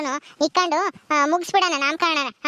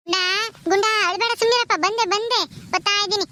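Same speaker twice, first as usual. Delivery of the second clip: put-on higher-pitched, coaxing call to a baby; soothing a baby; 4 semitones higher than usual. Woman calling to the crying baby Gunda that she is coming, soothing. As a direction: hush the little one as you come.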